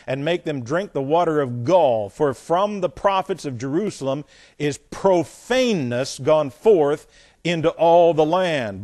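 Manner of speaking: emphatic, measured Bible reading; scripture reading. Acted. Preacher reads a prophet's warning to the congregation, emphatic scripture reading. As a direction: declaim the verse with weight.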